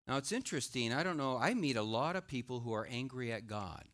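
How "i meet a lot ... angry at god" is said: normal talking voice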